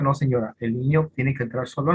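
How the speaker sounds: understated, low-pitched refusal; calm refusal. Retold or imitated. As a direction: imitate a professional calmly holding firm. Psychologist refusing an insistent mother.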